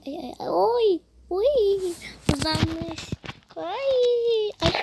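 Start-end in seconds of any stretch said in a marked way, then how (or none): 0.5-1.9 loud cry. Real, not acted. Shaken about in the game. 3.6-4.7 startled cry. Real, not acted. Shaken about in the game.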